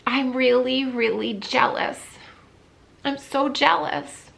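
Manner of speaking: admitting it through real tears; real crying, jealous of people with parents; tearful. Real, not acted. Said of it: "I knew that I would get emotional talking about this".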